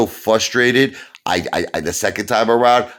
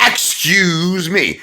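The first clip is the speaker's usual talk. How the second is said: slow, much higher "Excuse me" stretched out; drawn-out polite excuse me; 11 semitones higher, much slower than usual. Shown as a demonstration. Protester squeezing past on the sidewalk, drawn out. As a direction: sing it sweetly to pass by. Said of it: "here's the right way to do it".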